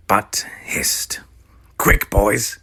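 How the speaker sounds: urgent loud whisper. Acted. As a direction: hiss it quickly. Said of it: "whispered Mounshroud".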